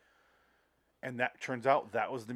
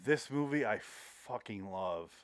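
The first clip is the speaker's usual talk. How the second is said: quietly awed; 2 semitones lower, 6 dB quieter, slower than usual. Retold or imitated. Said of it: "that's when I go".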